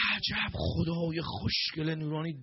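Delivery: slow, drawn-out mock marvelling; stretched-out admiring exclamation; feigned admiration. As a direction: draw out the praise as if awestruck. Feigned admiration of the sun god.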